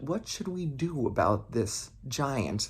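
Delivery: soft, slow worried elders asking; hushed and slow, wondering what to do; hushed worried question. Acted. Elder Trids ask each other what to do, hushed and slow.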